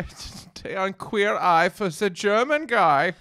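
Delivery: slow, loud, laughing pitch. Acted. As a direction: drawl the joke title through a laugh. Laughing joke title.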